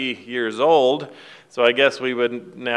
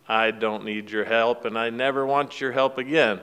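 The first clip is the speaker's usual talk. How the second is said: son refusing his father's help, mildly disgusted. Retold or imitated. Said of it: "he's very disgusted".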